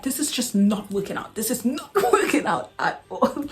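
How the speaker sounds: quoting the boss while laughing; boss's words said through her own giggles; laughing through the quote. Retold or imitated. Retelling the boss's verdict with a laugh. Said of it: "And she was like".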